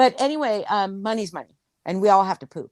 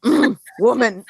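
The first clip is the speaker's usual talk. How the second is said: caveman grunt; 4 semitones higher, 5 dB louder than usual. Retold or imitated. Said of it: "he went".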